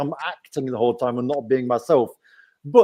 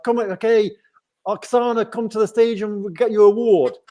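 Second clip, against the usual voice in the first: higher, lively mock stage announcer; event announcer; 5 semitones higher, 3 dB louder than usual. Host calling a winner to the stage, imitated announcer. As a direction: call a child up like an event host.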